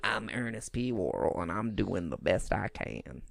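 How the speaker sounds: slow, low, soft country twang with a deep drawl; Ernest country twang. Retold or imitated. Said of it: "country deep, but, like, twang".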